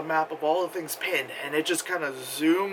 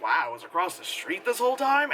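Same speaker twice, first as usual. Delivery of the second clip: amazed; 3 semitones higher than usual. Retold or imitated. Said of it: "And then I was like".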